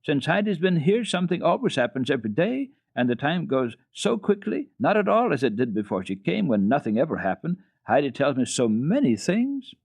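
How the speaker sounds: a hint of an eager little daughter; lightly voiced young girl. A narrator's reading. Clara's voice in story.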